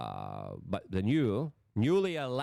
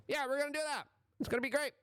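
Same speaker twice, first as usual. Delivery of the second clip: sarcastic; faster than usual. Pretend. Sarcastic mock of policymakers.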